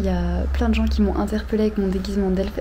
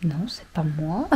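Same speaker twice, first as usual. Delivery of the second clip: mock guy denying; 4 semitones lower, 3 dB quieter than usual. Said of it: "il faisait".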